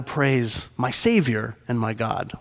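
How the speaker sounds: "Savior" set apart and given weight; stress on SAVIOR. Shown as a demonstration. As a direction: lean on the word "Savior". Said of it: "Emphasis on the word Savior".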